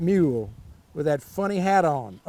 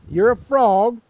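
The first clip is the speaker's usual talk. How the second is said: bossy cat; 3 semitones higher, 7 dB louder than usual. A narrator's reading. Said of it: "said the cat".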